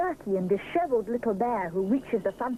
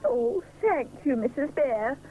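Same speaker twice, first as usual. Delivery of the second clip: grateful; 6 semitones higher than usual. A narrator's reading. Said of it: "says Mister Sponge gratefully".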